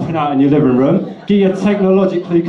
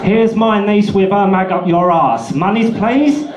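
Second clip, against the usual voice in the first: mock begging reader; 6 semitones higher than usual. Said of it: "all posed up".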